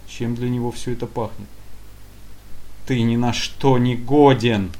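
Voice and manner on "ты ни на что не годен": loud, slow crushing put-down; withering contempt. Acted. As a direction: fling it with utter contempt. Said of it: "уничтожающе бросило".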